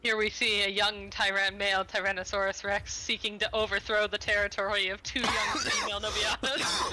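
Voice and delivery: calm nature documentary voice; documentary narrator. Pretend. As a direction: narrate like a wildlife film.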